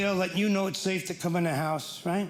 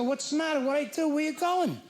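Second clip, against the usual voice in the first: higher, panicky pleading; worried husband; 8 semitones higher than usual. Retold or imitated. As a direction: ask like he's afraid she's leaving. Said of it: "I go".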